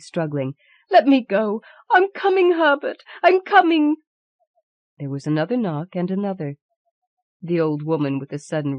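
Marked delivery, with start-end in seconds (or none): 0.9-4.0 high desperate calling out; frantic cry. Acted. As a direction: call out to her son wildly. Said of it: "she cried, struggling".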